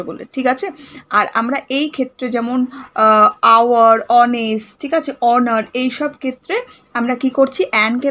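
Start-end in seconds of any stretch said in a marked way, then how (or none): 3.4-4.8 "আওয়ার" and "অনেস্ট" both starting on vowels; silent H. Shown as a demonstration. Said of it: "এইচের যে উচ্চারণটা সেটা উহ্য থাকছে".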